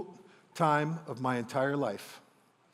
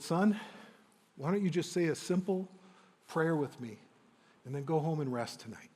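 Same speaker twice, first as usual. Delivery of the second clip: lightly voiced father, softer and tender; gentle father; 7 dB quieter than usual. Father gently listing what his son has tried, softly tender. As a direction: lay it out kindly, not accusing.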